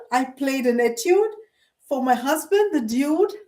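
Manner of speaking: measured rhyming recitation with lilting phrases; poem recital. Real, not acted. Vlogger reciting her own rhyming poem to viewers, measured and lilting. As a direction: recite your own verse line by line, pausing between phrases. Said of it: "So here goes, first poem with rhyme".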